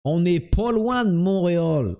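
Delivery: broaden the vowels like a Québécois; comic put-on Québécois accent. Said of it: "quand tu imites les Québécois".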